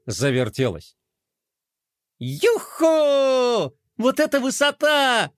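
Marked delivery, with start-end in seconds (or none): 2.2-5.3 higher, triumphant cheer; triumphant shout. A narrator's reading. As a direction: crow over the high shot. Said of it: "победно закричала Глория". (победный высокий возглас)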